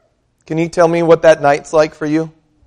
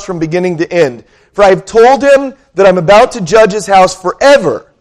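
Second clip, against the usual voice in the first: measured scripture reading, a touch raised; 2 semitones higher than usual. Acted. Pastor reading scripture to the congregation, measured and raised. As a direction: read the passage out to the church.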